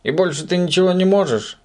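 high scornful put-down; disdainful. A narrator's reading. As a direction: sneer at his little trick. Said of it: "пренебрежительно осведомился".

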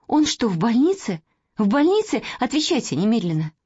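anxious demand. Acted. Girl demands answers.

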